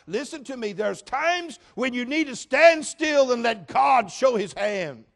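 loud, high, slow shouted sermon; preacher shouting steadfast; full-force preaching. Acted. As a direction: thunder it to the church.

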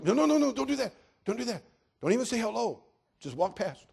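high, loud, urgent no no no; urgent warning. Acted. Dimitri warning the preacher off the mafia, high and urgent. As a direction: stop him in a panic.

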